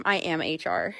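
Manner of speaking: said through a laugh. Retold or imitated. Owner retells telling the new hire, laughing. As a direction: chuckle the words out. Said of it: "and I told him".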